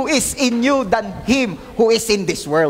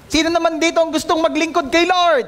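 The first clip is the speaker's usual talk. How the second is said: rallying shout; 5 semitones higher than usual. Real, not acted. Pastor calling out to the congregation, raised rallying shout. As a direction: call out to the whole room, raised and bright.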